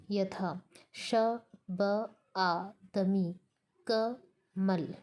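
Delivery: syllables read apart, very slow; क, मल read as two slow parted beats; syllables split for stress. Shown as a demonstration. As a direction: break each word into separate beats, pausing between them. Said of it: "उपांत्य स्वर पर बलाघात होता है".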